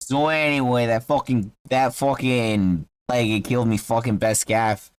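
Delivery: put-on Boston accent, aggrieved; Boston halfling. Halfling retells his cat's death to a traveller, Boston accent. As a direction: complain like a Bostonian. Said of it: "Yeah, he's from Boston".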